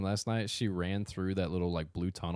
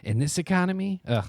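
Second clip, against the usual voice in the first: laughing mock quip; 11 semitones higher, 7 dB louder than usual. Mocking quip while laughing.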